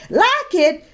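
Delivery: high scornful bellow. Acted. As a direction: throw the words back at her. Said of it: "bellowed Missus McSnoot".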